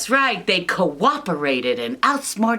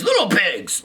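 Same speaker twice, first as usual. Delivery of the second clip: hammed-up wolf call, a bit louder; 3 semitones higher, 3 dB louder than usual. Wolf at the door, mock calling. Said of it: "he says".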